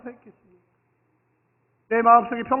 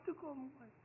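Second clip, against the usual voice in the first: much softer "뜨거움과" almost to nothing; quiet echo; 3 semitones higher, 23 dB quieter than usual. Shown as a demonstration. Pastor repeating the phrase to himself, very soft. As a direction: let it fall away. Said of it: "phrase said then echoed".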